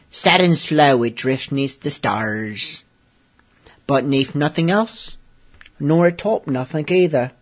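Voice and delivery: half-hearted pirate poem reading. Acted. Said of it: "in my best pirate voice".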